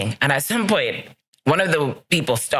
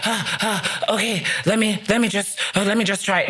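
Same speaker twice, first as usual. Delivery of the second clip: higher, faltering imitation of her unsure self; mock your nervous past self, pitched up; hesitant and unsure; 6 semitones higher than usual. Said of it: "as opposed to feeling like".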